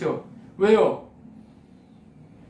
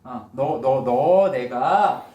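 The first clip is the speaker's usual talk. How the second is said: stammering God; 4 semitones lower, 3 dB louder, much slower than usual. Acted. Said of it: "내가래요, 내가".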